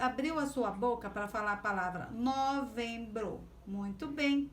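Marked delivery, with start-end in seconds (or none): 2.1-3.4 "novembro" in three beats, no, vem, bro; syllable by syllable. Shown as a demonstration. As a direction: separate each syllable of "novembro". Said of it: "três vezes".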